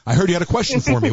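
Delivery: mock Bob Iger. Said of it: "I'll be Bob Iger".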